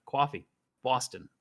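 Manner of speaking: put-on East Coast American vowels; badly faked New York and Boston accent; mock American accent. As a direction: exaggerate the American city accent. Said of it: "I'm sorry to every American".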